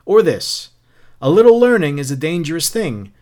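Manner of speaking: declaimed verse, punched opening easing off; a touch of showy recitation; lightly voiced taunting Beatty. Captain quoting Pope at Montag, lightly taunting.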